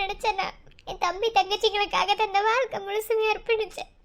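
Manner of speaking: crying between phrases; anguished plea, rising at the end; tearful fear. Acted. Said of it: "தயவு செஞ்சு அழாத". (அழுகையோடு பயந்து புலம்புவது)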